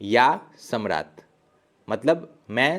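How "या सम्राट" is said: slow demo. Shown as a demonstration. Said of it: "Russian में सिर्फ दो word इस्तेमाल होगा".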